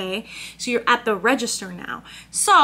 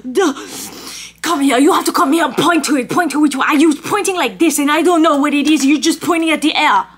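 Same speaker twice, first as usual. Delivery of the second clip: rude barista scolding; 3 semitones higher, 5 dB louder, faster than usual. Retold or imitated. Barista scolding customer to come point, loud and condescending. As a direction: talk down to her like a nuisance. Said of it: "he's like".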